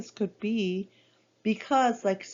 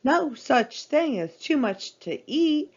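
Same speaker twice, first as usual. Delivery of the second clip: chuckling; 5 semitones higher, 3 dB louder than usual. Acted. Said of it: "chuckled Tigger".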